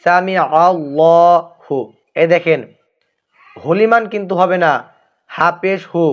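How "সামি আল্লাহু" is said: সামি আল্লাহু লিমান হামিদা slow, আল্লাহু stretched, no break before লিমান; correct recitation. Shown as a demonstration. Teacher models the correct prayer phrase for viewers, slow recitation. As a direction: intone it slowly with a held আল্লাহু. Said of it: "এখানে উচ্চারণটা হচ্ছে".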